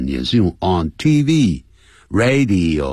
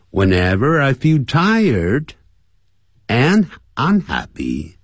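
read-aloud example sentence; 5 semitones higher, slower than usual. Shown as a demonstration. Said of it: "lesson example read".

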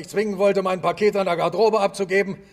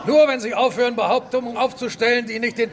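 shouting back; 3 semitones higher than usual. Acted. Challenger shouting back at Illingworth, defiant. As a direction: hit back at him hard.

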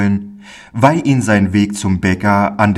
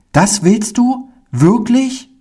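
put-on very high, rising child's questions; a small boy who can hardly believe his luck; overjoyed disbelief; 13 semitones higher than usual. A narrator's reading. Pauli is offered circus tickets, delighted high child voice. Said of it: "Mit glänzenden Augen und ganz rot vor Freude".

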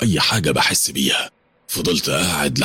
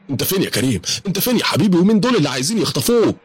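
calling out; 12 semitones higher, faster than usual. Acted. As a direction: shout down the stairs for your son. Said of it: "وأنا بنادي عليه".

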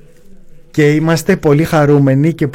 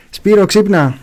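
higher-pitched mock wake-up call; playful wake-up call; 5 semitones higher, slower than usual. Host to guest pretending to be asleep on the phone, playful rousing call. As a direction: call out to rouse him playfully.

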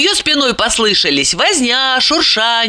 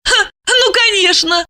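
high, mocking woman's voice; sneering amusement; 13 semitones higher than usual. A narrator's reading. Lipochka doubts Roman is no thief, scoffing. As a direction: scoff with a short 'ha'. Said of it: "усмехнулась Липочка".

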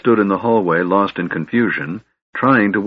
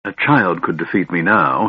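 bitter; 2 semitones higher than usual. Acted. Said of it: "he said bitterly".

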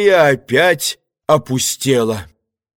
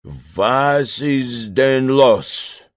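German; much slower than usual. Acted. Немец отвечает по-немецки.

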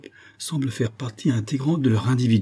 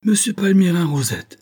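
high-pitched cry of recognition; astonished exclamation; 9 semitones higher, 4 dB louder than usual. A narrator's reading. Captain recognises his old professor, astonished exclamation. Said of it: "s'écria-t-il".

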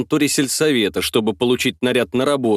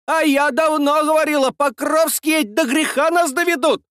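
high woman's voice calling out; shrill voice from crowd; 14 semitones higher than usual. A narrator's reading. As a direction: cry out from the crowd, pitched high. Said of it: "Взвился ещё чей-то голос". (взвившийся голос из толпы)

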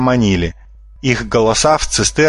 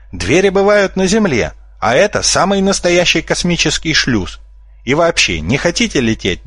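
sly conman; 5 semitones higher than usual. Acted. Fox conman lecturing the kids.

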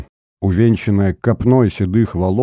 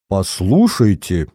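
slow, offended protest; old chekist indignantly protesting. Acted. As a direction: bristle at the cheek. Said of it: "возмутился старый чекист".

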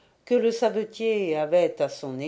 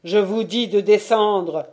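louder, firm command; insist, louder now; raised voice; 6 dB louder than usual. Acted. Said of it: "en élevant la voix".

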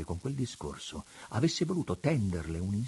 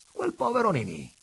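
high, loud repeat with a smile; amused echo; 13 semitones higher, 6 dB louder than usual. A narrator's reading. Father repeating his daughter's words, smiling too. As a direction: echo the amusement, a step below a full outburst. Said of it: "scrollando il capo e sorridendo anche lui".

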